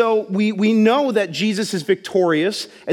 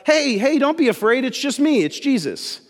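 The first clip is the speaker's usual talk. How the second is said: higher called-out reassurance across the water; reassuring call; 6 semitones higher than usual. Retold or imitated. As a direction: call out to calm frightened friends. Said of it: "he just yells out".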